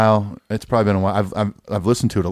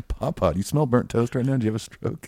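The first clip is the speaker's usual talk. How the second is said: put-on voice; 3 semitones higher, 4 dB quieter than usual. Voiced partner in bit.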